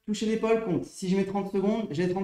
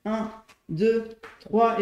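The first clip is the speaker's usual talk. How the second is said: counting workout reps; much slower than usual. Shown as a demonstration. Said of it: "chaque fois que je touche, ça fait un".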